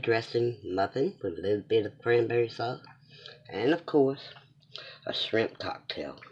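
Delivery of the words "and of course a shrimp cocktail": soft, slow whisper. Real, not acted. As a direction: whisper it like a little secret. Playful reveal of the treat.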